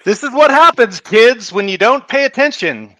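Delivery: put-on lecturing the kids as a shop teacher; shop class teacher. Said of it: "now you sound like my old shop teacher".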